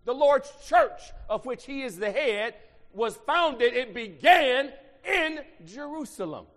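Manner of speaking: loud, high preacher's shout; full-force preaching. Acted. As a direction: preach it hard to the congregation.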